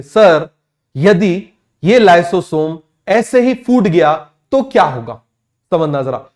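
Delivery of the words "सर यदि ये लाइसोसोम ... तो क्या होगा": student asking. Retold or imitated. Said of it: "आपके question आते".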